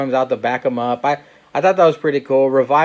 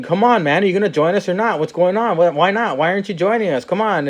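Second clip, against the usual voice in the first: lightly voiced, higher coaxing plea; a hint of a wheedling wrestler; pleading Sami Zayn; 5 semitones higher than usual. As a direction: nag him to join, half-playing Sami. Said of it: "Sami Zayn was basically saying".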